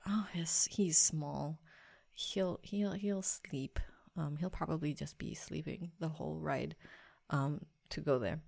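soft, hushed musing to oneself; retold naive thought. Mom guessing her baby will sleep on the plane, quiet musing. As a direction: think it through quietly, reassuring yourself.

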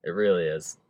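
soft, after the laugh settles; quiet. Real, not acted. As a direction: say it softly, sincerely.

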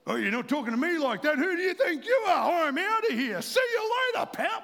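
mock furious walk-out; defiant quitting. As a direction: storm out on the boss, loud and high. Imagined reply to rude boss.

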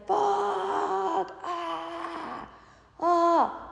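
high pained cries, imitated; imitating son's cry. Son running in from the yard, crying out in mock pain. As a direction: mimic a kid yelping in pain.

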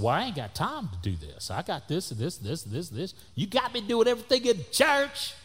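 whiny complaint climbing to a high peak; exasperated protest. Retold or imitated. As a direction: protest your workload, pitch shooting up at the end. Acting out his protest to pastor.

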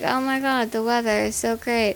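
flat deadpan monotone. Retold or imitated. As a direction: say it with no inflection. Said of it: "completely normal and monotone voice".

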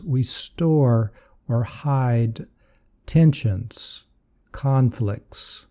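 guided meditation. Acted. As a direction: lead them gently into relaxation.

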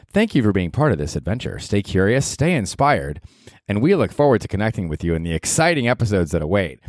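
sing-song, lilting formal read; speech read-out. Acted. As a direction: read it like a canned year-end address. Reads out a generated speech.

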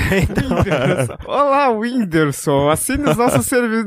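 slow, drawn-out mock seductive sales greeting; hammed-up slow telemarketing recording voice; mock sales robocall voice. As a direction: play a recorded telemarketer purring a customer's name, slowly. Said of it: "como é que a Débora".

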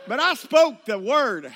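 laughing shout. Real, not acted. Preacher punchline, shouting, laughing.

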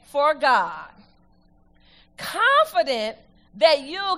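slow, stressed reading of the verse; emphatic scripture reading. Acted. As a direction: lean into each phrase for the church.

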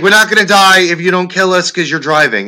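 high, loud exasperated retort; exasperated wife. Retold or imitated. Wife snapping back at the panicking driver, exasperated. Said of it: "She's like".

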